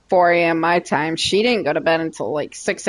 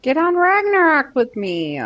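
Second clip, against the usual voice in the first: high pleading; 4 semitones higher than usual. Acted. Pleading to join game.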